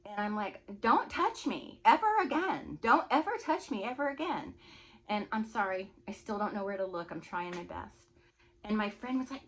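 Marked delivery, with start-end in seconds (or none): 0.8-4.6 angry warning. Retold or imitated. To the man who grabbed her arm, angry warning. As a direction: punch out each phrase as a threat. Retold warning after smacking him.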